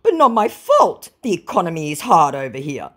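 whiny scammer excuse; mock scammer voice. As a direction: scammer blaming the economy, mocked. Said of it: "he goes".

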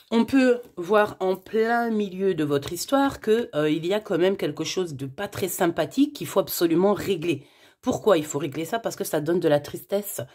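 slushy lisp on s sounds. Real, not acted. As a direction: talk with a lisp, s sounds blurred. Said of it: "j'ai un cheveu sur la langue".

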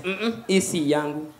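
husband drawling a flat refusal; slow, soft mock denial; low, slow denial. Husband denying the pregnancy to his wife, slow and low.

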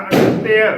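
ਅਨਿਤਯ said a-ni-te-a, with an i on the t; demonstrated pronunciation. Shown as a demonstration. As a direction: sound ਅਨਿਤਯ with the y opened into a vowel. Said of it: "ਤੱਤੇ ਨੂੰ ਸਿਹਾਰੀ ਲਗਾ ਕੇ".

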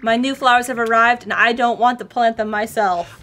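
light posh lady voice; a hint of a posh dressed-up woman. Playing the woman asking them to plant flowers, lightly posh. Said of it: "went with a posh".

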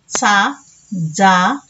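TSA and DZA for సా, జా, drawn out; old letter sounds. Shown as a demonstration. Teacher showing pupils the old letters, slow tsa and dza for సా, జా. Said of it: "ఎలా పలుకుతారో తెలుసుకొని పలకండి".

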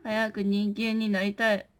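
low, soft, slow quote; low slow yokai line. Pretend. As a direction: murmur it like the old yokai anime. (低くゆっくりと妖怪のセリフ)

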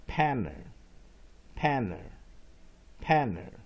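"panner" with a weak, unstressed uh ending; weak second A. Shown as a demonstration. Teacher drilling the weak syllable, falling "panner". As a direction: stress "panner" up front, let the ending fall to a schwa. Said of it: "weak vowel A".

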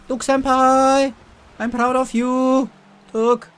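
high, loud gushing fangirl squeal; excited anime fan. Pretend. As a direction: gush over your senpai. Gushing shout-out to Duck Senpai.

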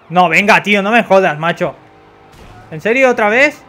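frustrated. Real, not acted. Police catch up again.

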